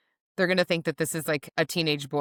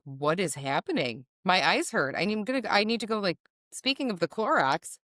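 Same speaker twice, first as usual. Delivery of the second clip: rising panicked rant, speeding up; hammed-up panic at pop culture; mock horror; 2 semitones higher than usual. Ranting to cohost about discovering reality stars, mock panic. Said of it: "I was like".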